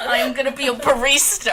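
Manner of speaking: laughing through the words; giggling as she announces it. Real, not acted. Laughing while announcing new job.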